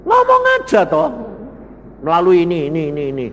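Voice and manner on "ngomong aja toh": much higher, louder and fast whiny demand; mocking the congregation. Preacher mimicking churchgoers demanding answers from God, high and fast. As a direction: mimic a complaining believer. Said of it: "saudara selalu ngomongnya kan gini".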